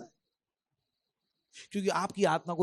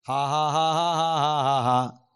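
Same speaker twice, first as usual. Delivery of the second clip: loud ha ha ha chant; performed group laugh; deliberate laugh; 6 dB louder, much slower than usual. Acted. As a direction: laugh on cue again. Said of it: "एक बार और मौका दे रहा हूं".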